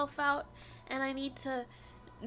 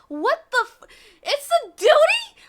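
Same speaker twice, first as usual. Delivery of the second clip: incredulous shout; 7 semitones higher, 13 dB louder than usual. Real, not acted. Disbelief at game.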